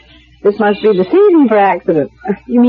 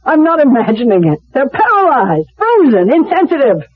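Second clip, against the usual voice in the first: desperate insistence, climbing higher with each word; a hurt patient's voice tightening as she pushes on; anguished plea; 4 semitones higher than usual. Acted. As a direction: plead to be believed, rising towards the end. Patient pleads with disbelieving doctor.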